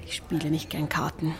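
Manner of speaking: soft, breathy near-whisper; whispered confession. Acted. Anne admits to Wentworth, half whispered. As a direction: let it slip out under her breath. Quiet confession at evening party.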